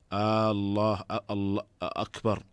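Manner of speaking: آه الله آه أكبر with the opening hamza of الله and أكبر stretched into a long آه; drawn-out hamza. Shown as a demonstration. Sheikh showing a wrong call to prayer with a stretched hamza. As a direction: stretch the first vowel into a long questioning آه. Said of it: "وذلك كأن يمد همزة الله".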